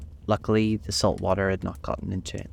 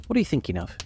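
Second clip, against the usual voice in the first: mildly severe, higher-pitched question; 6 semitones higher, faster than usual. A narrator's reading. The mouse questioning inattentive Alice, mildly severe. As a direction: demand it with some severity, pitch raised. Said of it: "said the mouse to Alice severely".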